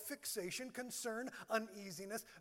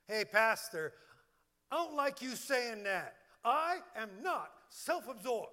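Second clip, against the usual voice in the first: lightly acted protest, pushed a little louder; mock indignant objection; 4 dB louder than usual. Congregant objecting to the pastor, mock indignant. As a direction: play an offended listener objecting.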